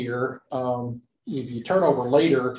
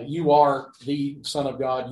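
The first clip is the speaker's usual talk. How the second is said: slow deliberate quote. Shown as a demonstration. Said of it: "not a whit's difference between those two statements".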